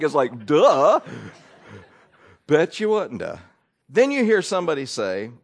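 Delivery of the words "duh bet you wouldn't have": a mild sarcastic repeat. Retold or imitated. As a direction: roll your eyes through it. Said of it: "you just wanna be so sarcastic".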